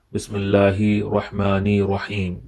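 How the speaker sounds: "Bismillahi Rahmani Rahim" with the r links dropped; wrong demo. Shown as a demonstration. Teacher shows students the wrong form, links dropped. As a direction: say "Rahmani" without the doubled r. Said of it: "That would be incorrect".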